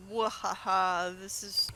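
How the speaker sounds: slow mock villain cackle "mwahaha"; slow evil laugh. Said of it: "well, not really mwahaha".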